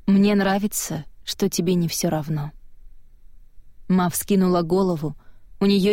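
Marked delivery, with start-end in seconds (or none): 0.0-2.5 gentle, fading into softness; softly. Acted. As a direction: say it softly and tenderly. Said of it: "Она мягко сказала".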